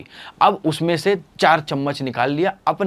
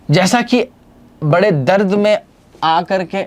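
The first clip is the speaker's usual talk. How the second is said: much higher and louder; dramatic build; 5 semitones higher, 4 dB louder than usual. Shown as a demonstration. Teacher building drama for the class, high and loud. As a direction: pump up the drama. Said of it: "storytelling in pain".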